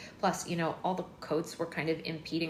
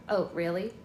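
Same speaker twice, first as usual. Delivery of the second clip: cold; 4 dB louder than usual. Acted. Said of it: "sounding very cold even to my own ears".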